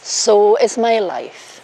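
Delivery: slow, solemn vow reading; officiant vows. Shown as a demonstration. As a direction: lead the vow line by line. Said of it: "repeat after me".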